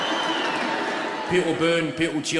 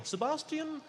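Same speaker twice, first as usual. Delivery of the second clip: high, carrying call across the street; kids calling out; 11 semitones higher than usual. Retold or imitated. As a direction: call out to a pal far away. Kids calling to their friend.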